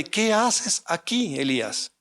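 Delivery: slow, soft, searching question; God's gentle voice. Acted. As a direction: ask it quietly and slowly, like a still small voice. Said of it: "La voz de Dios diciéndole nuevamente". (la voz de Dios pregunta a Elías, lenta y suave)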